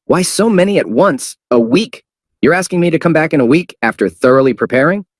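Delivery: high incredulous question; high surprised voice. Acted. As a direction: disbelief at the demand. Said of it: "said in surprise".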